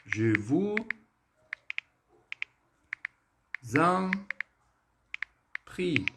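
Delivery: "Je vous", long pause, "en", pause, "prie"; word by word. Shown as a demonstration. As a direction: break "Je vous en prie" into separate words. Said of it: "ela é estruturada assim, ó". ("Je vous en prie" palavra por palavra, com pausas)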